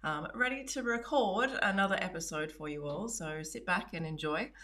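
groggy morning voice, just out of bed; just woke up. Real, not acted. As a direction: talk like you only just woke up. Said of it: "I only pretty much just woke up".

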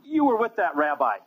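high, mock woman's voice calling him out; accusing woman. Woman by the fire accuses Peter, high mock voice. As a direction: pitch it up high like a woman pointing a finger. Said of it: "And a woman says".

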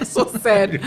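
laughing while saying it. Acted. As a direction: say it through a laugh.

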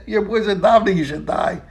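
chuckling as the words come out; can't hold back a laugh on the punchline; laughing through the punchline. Real, not acted. Teacher retelling his friend's joke, laughing through it. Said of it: "It made me laugh and laugh".

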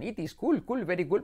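cartoon Indian-English accent; lilting Indian accent, light l in "cool"; Apu. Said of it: "Como dice Apu". (imitando acento indio)

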